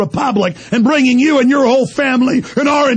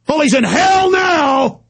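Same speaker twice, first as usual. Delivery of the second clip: higher, slow, spat-out shout; slow angry shout; 6 semitones higher, slower than usual. Real, not acted. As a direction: drag it out with contempt. Ranting about Jackson's death.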